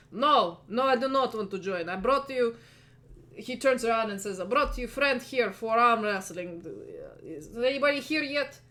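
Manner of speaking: a hint of a chill, spaced-out gym owner; mellow stoner. GM voices stoner proprietor.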